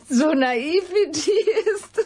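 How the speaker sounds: laughing scornfully through the words; high, slow, laughing scorn; mocking laugh. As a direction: laugh her off as naive.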